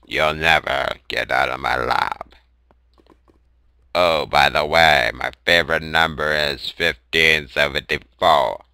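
half-hearted taunting villain; intercom villain voice. Acted. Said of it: "That's my intercom voice".

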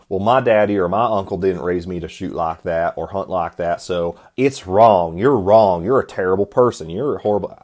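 mock Southern accent, ranting and accusing. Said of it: "I don't know why I'm Southern".

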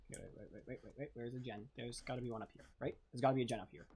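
barely above a whisper; tense hushed voice. Real, not acted. Hiding, hushed.

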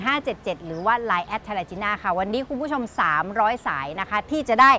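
เสียงพิธีกรขายของ เร่งเร้าให้โทรสั่ง; ประกาศโปรโมชั่นแบบพิธีกรช็อปปิ้ง; ขายของทางทีวี. Acted. Host pitches the product offer. (พิธีกรบอกผู้ชมให้โทรมาตอนนี้ ด้วยเสียงขายของ)

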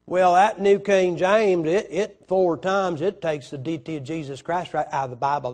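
country bumpkin voice. Pretend. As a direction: act like you just came in on a load of pumpkins. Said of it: "with my best, just came in from Tennessee".

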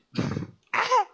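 very high, loud yelp; short high-pitched scream of mock agony; mock pained scream. Player reacting to getting hit, high mock scream. Hit in game, acts in pain.

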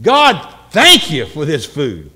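slow, weighty, earnest grace; mean each word of thanks; serious prayer. Acted. Person praying seriously over food, serious prayer. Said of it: "we need to be more serious".

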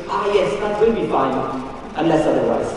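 lightly imitated Zambian English; hint of put-on Zambian accent. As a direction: quote a local saying with a mild Zambian lilt. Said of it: "one of my favourite, uh, Zambianisms".

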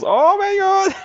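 sudden high, loud "Oh my God"; excited shriek. Real, not acted. Gamer reacting to a wild wrestling move, high excited squeal. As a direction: squeal it, genuinely thrilled.

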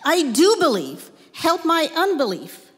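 a father crying out to Jesus for his son; desperate cry. Acted. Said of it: "The father instantly cried out".

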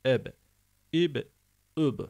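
"eb, ib, üb" each ending in a bounced B; qalqalah echo. Shown as a demonstration. Teacher reciting as in the Qur'an, echoing B on "eb, ib, üb". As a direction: pop each final B into a short echo. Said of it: "Kur'an-ı Kerim'de geldiği zaman eb".

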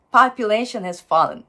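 population has fallen linked, weak has, strong fallen; stress on fallen. Shown as a demonstration. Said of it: "fallenの方にストレスを置いて". (hasは弱くつなぎ、fallenを強く)

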